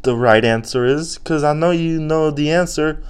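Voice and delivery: put-on high, pleading childlike voice; confused little-kid brain. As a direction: whine helplessly like a cornered kid. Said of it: "And our brains are like".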